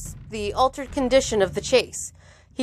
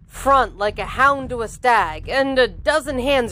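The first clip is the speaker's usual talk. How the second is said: animated audiobook reading; measured, dramatic storytelling; story narration. A narrator's reading. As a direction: read the action out crisply to listeners. Reads the novel aloud.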